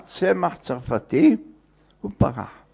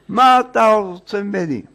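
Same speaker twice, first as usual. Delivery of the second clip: higher, louder retold protest; exasperated; 5 semitones higher, 4 dB louder than usual. Woken man to the visitor at his door, exasperated. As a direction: protest at being bothered, voice raised.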